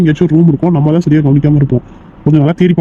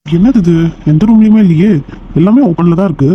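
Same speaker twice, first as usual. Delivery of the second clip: baffled alarm; 3 semitones higher than usual. Acted. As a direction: call it out in baffled frustration. Searchers find every room empty. (குழப்பத்தோடு உரத்த குரலில்)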